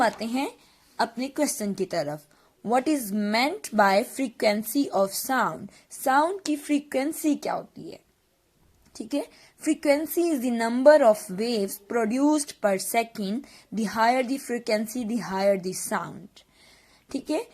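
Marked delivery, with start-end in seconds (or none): 2.6-5.7 reading the question out slowly for notes; slow dictation. Acted. Teacher dictating a question to her class, slowly. 9.6-16.4 slow, word-by-word definition read; slow dictation. Acted. Teacher dictating a definition to students, very slowly.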